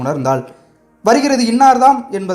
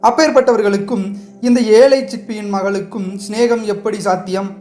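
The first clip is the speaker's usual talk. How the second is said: mild angry retort, voice a little raised; indignant; 4 semitones higher than usual. Acted. Sivakami to Rati, pointedly aimed at the prince, in mild indignation. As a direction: Sivakami lets bitter anger show through. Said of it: "ஆத்திரம் நிறைந்த குரலில் கூறினாள்".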